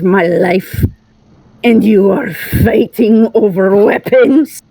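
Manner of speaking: guttural growl. Acted. Ankara accusing companions over a friend's death, growling anger. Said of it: "deep, guttural growl coming in the direction".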